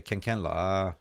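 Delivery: Malaysian accent with a trailing lah; Malaysian English. Shown as a demonstration. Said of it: "you speak like, with la".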